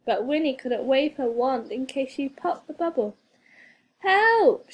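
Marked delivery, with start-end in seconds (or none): 4.0-4.7 high, loud call for help; panicky cry for help. A narrator's reading. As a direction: shout it out in a small panic. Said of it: "feeling a bit panicky".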